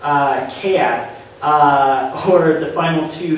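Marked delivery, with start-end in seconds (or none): 0.6-1.1 cat with the A stretched toward yeah, almost two syllables; cat with a split, drawn A as in idea; Northern Cities vowel. Shown as a demonstration. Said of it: "The A sound almost begins to resemble the word yeah".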